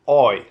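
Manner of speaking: "oi" as the Irish way of saying I. Shown as a demonstration. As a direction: round "oi" into one long glide.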